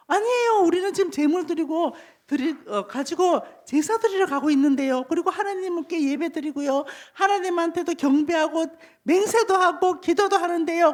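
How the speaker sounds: startled protest. Acted. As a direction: protest innocence as a startled crowd. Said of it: "이 사람들이 깜짝 놀랐어요". (깜짝 놀라 억울한 듯 항변하며)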